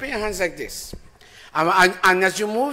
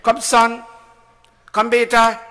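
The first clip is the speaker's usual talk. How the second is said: raised, higher beckoning call; 6 semitones higher, 7 dB louder than usual. Real, not acted. Preacher calls a child up to read, calling out.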